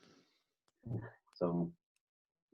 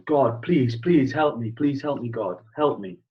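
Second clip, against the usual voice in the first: hammed-up cry for help, raised and louder at first; joke-teller's mock shout, easing off by the end; mock shouted plea; 2 semitones higher, 5 dB louder, slower than usual. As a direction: plead loudly to God, lightly acted. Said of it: "And he's shouting".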